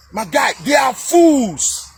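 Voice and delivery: slow scornful shout; slow emphatic shout. Real, not acted. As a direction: drag out each word, shouting. Angry rant at social media.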